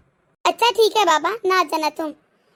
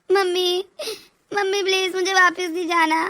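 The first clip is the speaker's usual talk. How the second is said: रोते हुए मिन्नत; tearful pleading; 2 semitones lower than usual. Acted. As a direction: beg through sobs not to go back. Daughter crying, begging to stay. (ससुराल न लौटने की रोती हुई विनती)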